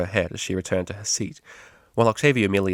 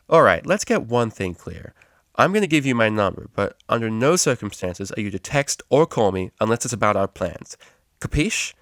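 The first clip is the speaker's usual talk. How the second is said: stern terms; 4 dB louder than usual. Acted. Vinyl lays down rules.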